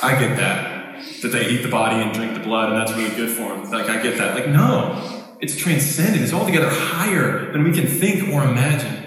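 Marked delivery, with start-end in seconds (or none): 0.0-4.4 lightly voiced psychologist, pitched lower; matter-of-fact mock agreement, kept low and level; imagined agreeing psychologist. Preacher imitating a psychologist who claims to get communion, lightly acted agreement. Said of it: "no psychologist would walk in and be like".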